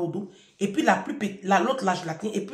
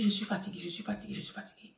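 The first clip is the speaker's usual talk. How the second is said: each tired line fading softer until it's only whispered; 10 dB quieter, faster than usual. Retold or imitated. Mother on the stairs, fading to a whisper. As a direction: let the words die away into breath. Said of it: "je dis".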